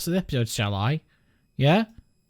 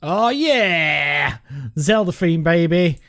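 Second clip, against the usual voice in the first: hyped; 5 dB louder than usual. Real, not acted. Hyped moment.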